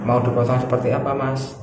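polite, unhurried question to a customer; good customer-service intonation. Shown as a demonstration. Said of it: "intonasinya yang bagus seperti ini".

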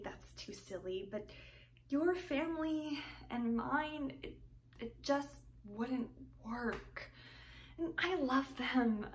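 put-on heartfelt young woman explaining her family; earnest, wistful romantic heroine; tragic heroine sorrow. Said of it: "You Can't Take It With You".

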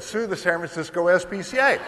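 "Sue the San Francisco S P C A" through a laugh, rising at the end; laughing correction. Retold or imitated. Setting the record straight for the audience, laughing. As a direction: correct himself with a chuckle, rising on "S P C A". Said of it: "Actually, I didn't say sue me".

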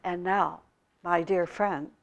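the Rinpoche answering the angry hermit calmly. Acted. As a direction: settle him down, kindly and quietly. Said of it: "said the Rinpoche calmly".

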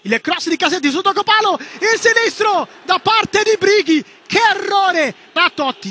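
loud, urgent match call; excited shout. Real, not acted. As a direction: shout the near miss to the crowd. Live commentary on a chance.

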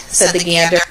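ordinary delivery

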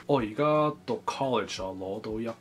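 searching for every word, unsure; struggling Cantonese speaker. Acted. Struggling speaker acts Cantonese role.

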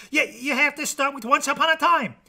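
high, loud frantic shout; shouting protest. Acted. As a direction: yell the rule in a panic. Jack protests the story rules.

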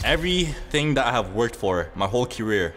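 solemn self pep talk. Pretend. Player meditating before game point, solemn pep talk. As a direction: psych yourself up solemnly. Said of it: "I gotta, like, meditate".

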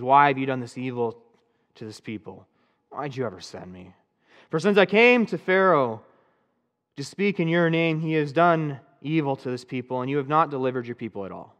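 mild bitter accusation, understated; accusing God. Retold or imitated. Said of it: "starting to accuse God".

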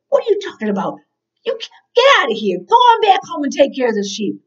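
quick, dismissive acted scolding; furious brothers. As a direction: send the kid packing in a hurry. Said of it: "David's brothers were furious".

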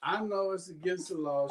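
speaking through a yawn; sleepy, yawning while talking. Real, not acted. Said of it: "because I'm yawning".

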